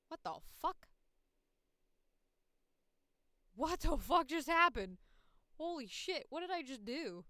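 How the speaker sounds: loud, high, startled outburst; real alarm. Real, not acted. Streamer just deleted something by accident, real loud alarm. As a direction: shriek in disbelief at your own mistake.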